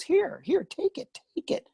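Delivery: insistent offer. Retold or imitated. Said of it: "She goes".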